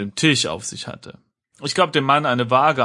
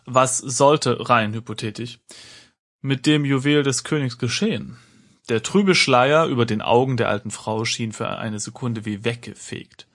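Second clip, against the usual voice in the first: steady storyteller reading with voiced characters; story narration. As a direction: read the adventure like an audiobook. Reads adventure text aloud. (Vorleseton einer Erzählung)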